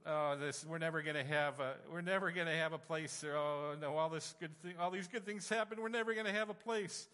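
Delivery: retold tearful lament, rising in pitch; a touch of retold weeping, pleading upward; crying in despair. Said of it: "And so I started to cry".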